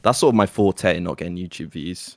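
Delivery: dry sarcastic boast; deadpan, tongue in cheek. Real, not acted. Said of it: "that was a lot of sarcasm there".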